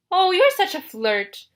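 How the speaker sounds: high, slow, coy bride voice; loud, simpering falsetto. A narrator's reading. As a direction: tease flirtatiously in falsetto. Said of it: "in his falsetto voice".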